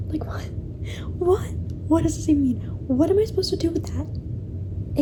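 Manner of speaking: stunned, rising confusion; baffled disbelief; confused. Real, not acted. Reacting to confusing ending.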